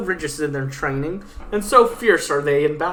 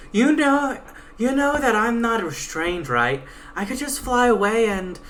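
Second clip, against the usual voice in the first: lightly voiced sassy Pegasus, a touch higher; 7 semitones higher than usual. Pegasus taunting her guide, a lightly voiced cocky mare. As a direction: read the Pegasus as a cocky, defiant young mare.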